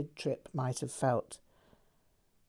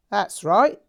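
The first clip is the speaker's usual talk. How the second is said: laughing; 4 semitones higher, 9 dB louder than usual. A narrator's reading. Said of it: "Jack laughed".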